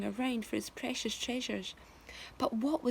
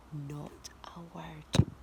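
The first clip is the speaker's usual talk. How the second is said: slow breathy whisper of a warning; secret whisper; 6 semitones lower, 3 dB quieter, much slower than usual. Acted. Old man whispering a warning to James.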